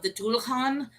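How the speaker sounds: Dullahan said as DOO-luh-kahn; variant pronunciation. Shown as a demonstration. Host lists name variants of the demon, Dullahan as DOO-luh-kahn. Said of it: "pronunciations and depictions of this".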